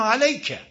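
"علیک" with a slightly fronted a gliding to y; correct minor imala. Shown as a demonstration. Teacher models it, "علیک" with just a hint of y. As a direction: say "علیک" between open a and e.

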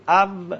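او with teeth on lip, like a v; wrong waw. Shown as a demonstration. Teacher shows students the faulty waw, wrong waw. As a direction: say او with a toothy v sound. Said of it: "دندونه نباید دخالت داشت".

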